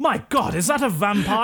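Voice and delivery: high-pitched mock astonishment; hammed-up startled discovery; shocked newcomer. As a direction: exclaim high in theatrical surprise. Newcomer spots the vampire.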